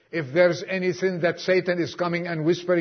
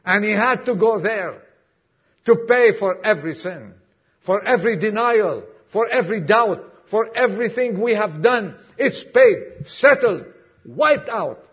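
rising proclamation; 3 semitones higher, 5 dB louder than usual. Real, not acted. Building to proclamation.

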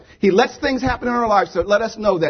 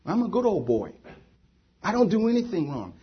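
self-righteous Pharisee; 5 dB quieter than usual. Acted. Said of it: "The Pharisees were saying".

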